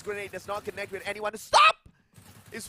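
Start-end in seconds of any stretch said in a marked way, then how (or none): 1.4-1.8 sudden high yell of the name; excited shout. Real, not acted. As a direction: blurt it out loud and high. Caster calls a player's play.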